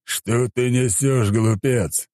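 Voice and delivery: disdainful deity; contemptuous disgust. A narrator's reading. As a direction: stretch it out as if talking to a fool. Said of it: "скривился он".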